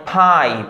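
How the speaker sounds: ফাইভ opening on a puffed ph; isolated model word ফাইভ with strong breath on the first sound; aspirated p. Shown as a demonstration. Teacher giving an example, ফাইভ with aspirated opening. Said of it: "প্রথমটা ফ".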